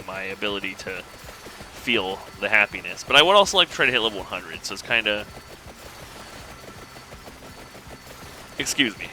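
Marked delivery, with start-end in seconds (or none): 4.7-9.1 hiccuping. Real, not acted. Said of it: "I'm hiccuping".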